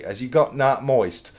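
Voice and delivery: slow, lightly broad Bolton quip; drawn-out catchphrase, lightly done; Peter Kay impression. Quoting Peter Kay's stand-up to Griff, mild northern. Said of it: "to quote Peter Kay".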